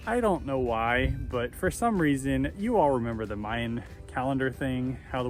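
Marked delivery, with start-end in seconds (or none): 0.1-2.5 slow aside. Real, not acted. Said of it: "Pause there for a second".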